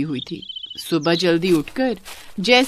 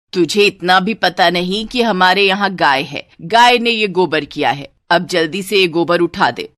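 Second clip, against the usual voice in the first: lightly voiced bossy saas; scolding mother-in-law; 4 dB louder than usual. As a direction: order the ignorant bahu about. (हल्के से डाँटती सास)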